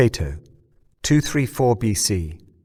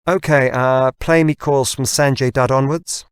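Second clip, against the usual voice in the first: firm command; 5 semitones higher, 5 dB louder than usual. Acted. James commands device.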